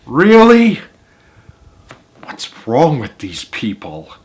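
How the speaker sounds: high then slow exasperated aside; mock disbelief. Real, not acted. Reader commenting on the parents, high then slowed. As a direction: scoff at the parents.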